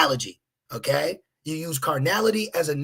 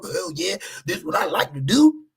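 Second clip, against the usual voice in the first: sarcastic. Pretend. Sarcastic mock enthusiasm about work.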